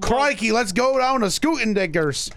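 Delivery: mock Australian accent. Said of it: "that was a little close".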